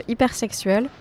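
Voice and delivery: title said with a clumsy English accent. Real, not acted. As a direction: say it the English way, a bit awkwardly. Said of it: "j'ai un accent anglais, euh, tout pourri".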